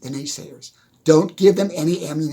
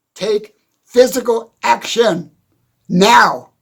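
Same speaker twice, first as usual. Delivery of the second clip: yelling, louder and slower; 7 semitones higher, 8 dB louder than usual. Speaker urging listeners to get to work: yelling. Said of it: "I'm yelling".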